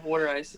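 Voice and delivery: "water" said as "wooder"; Philly pronunciation. Shown as a demonstration. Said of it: "W O O D E R".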